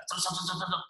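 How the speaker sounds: soft, repeated "cet" sound effect; imitated rushing noise. Preacher mimicking congregation raiding the buffet, playful. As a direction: tick off little darting sounds.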